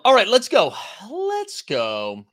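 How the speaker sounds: hyped shout. Real, not acted. Hyping chat to start the show.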